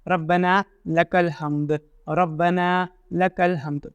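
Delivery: रब्बना लकल हम्द drawn out slowly, each word clear; slow clear recitation. Shown as a demonstration. Teacher reciting the prayer slowly for students. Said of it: "इस तरीके से पढ़ना".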